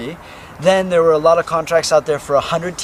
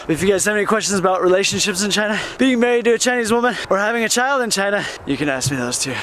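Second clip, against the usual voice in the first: huffing and puffing from the climb; out of breath; 5 semitones higher, faster than usual. Real, not acted. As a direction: talk while panting up a hill. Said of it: "Sorry for the huffing and puffing".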